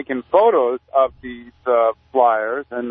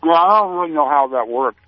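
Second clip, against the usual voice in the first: talking while chewing; mouth full; 4 semitones higher than usual. Real, not acted. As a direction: speak through a mouthful of food. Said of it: "Are you talking with your mouth full here?".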